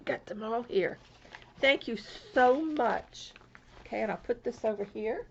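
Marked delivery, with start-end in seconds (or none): 1.6-3.3 gushing thanks. Real, not acted. Thanking sender.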